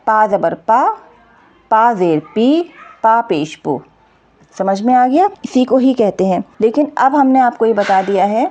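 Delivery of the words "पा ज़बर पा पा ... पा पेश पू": letter, mark, then long syllable: पा, पी, पू; syllable drill. Shown as a demonstration. Teacher models how to read it, syllable drill. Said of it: "ऐसे हम इसको पढ़ेंगे".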